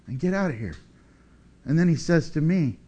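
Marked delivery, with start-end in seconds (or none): 0.0-0.8 Jesus rebuking the devil. Pretend. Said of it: "And Jesus says".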